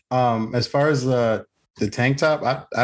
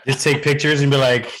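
laughing; 4 semitones higher, 4 dB louder than usual. Real, not acted. Laughing while joking.

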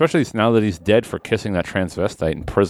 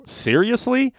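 incredulous; 13 semitones higher, slower than usual. Acted. Acted audience reaction.

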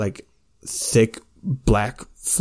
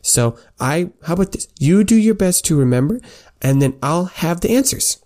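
prim scholar voice; 6 semitones higher than usual. Acted. Sympathy lecturing squire.

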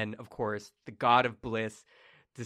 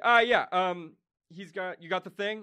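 god asking; 8 semitones higher, 7 dB louder than usual. Acted. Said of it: "And he's like".

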